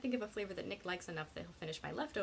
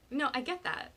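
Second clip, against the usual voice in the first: higher, louder eager agreement; 6 semitones higher, 6 dB louder than usual. A narrator's reading. Penny hurries to agree with her friend, eager. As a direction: jump in keen to agree. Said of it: "Penny says eagerly".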